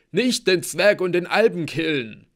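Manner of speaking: high, loud, falling wail; whimpered plea. A narrator's reading. Blitzen begs not to be killed, wailing. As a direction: beg frantically for your life. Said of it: "wimmerte Blitzen".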